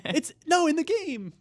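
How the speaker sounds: high, loud teasing; joking accusation. Real, not acted. Host teases Alana, high and loud. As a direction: tease her, voice jumping high.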